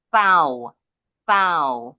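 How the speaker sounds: THOU as "thau", tongue tip out, loud and separate; th sound. Shown as a demonstration. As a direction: drill THOU with a firm th, falling. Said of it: "Ujung lidahnya harus keluar dulu". (THOU dengan ujung lidah keluar)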